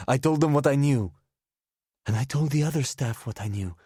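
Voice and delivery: put-on loud, high, furious drunken rant; angry rant. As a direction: hurl the names at him. Drunk woman rants accusations.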